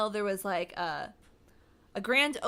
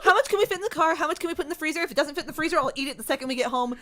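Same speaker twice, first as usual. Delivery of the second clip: greedy excitement; 3 semitones higher, 5 dB louder, faster than usual. Retold or imitated. To the shop staff, eager and greedy. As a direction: gush over the free gelato. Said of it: "I was like".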